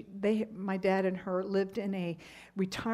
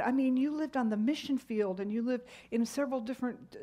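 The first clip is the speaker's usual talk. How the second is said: raised, pleading insistence; emphatic protest; 4 semitones higher than usual. Retold or imitated. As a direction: press the point with rising urgency. Arguing mother's loss to her.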